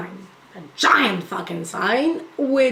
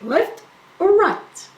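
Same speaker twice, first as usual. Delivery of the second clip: mock confused question; 7 semitones higher, slower than usual. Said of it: "I confused it again".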